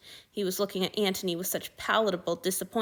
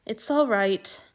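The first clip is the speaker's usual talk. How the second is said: soothing; 3 semitones higher, 4 dB louder, slower than usual. Acted. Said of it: "Marcus's soothing tone".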